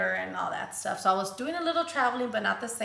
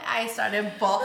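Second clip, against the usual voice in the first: crying; 3 dB louder than usual. Real, not acted. Recalling being fired, breaking into tears. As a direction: voice cracking with real tears. Crying retelling job loss.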